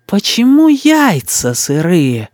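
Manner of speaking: put-on slow, stern child's question; a little boss interrogating; demanding boy. A narrator's reading. Boy demands boiled eggs. (мальчик требовательно спрашивает)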